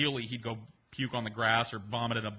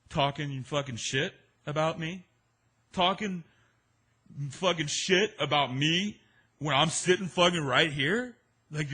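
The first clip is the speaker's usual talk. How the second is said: put-on louder, higher belligerent drunk rant; drunk angry yelling; 5 semitones higher, 6 dB louder than usual. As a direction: bark it like a drunk picking a fight. Drunk Waylon picks a fight.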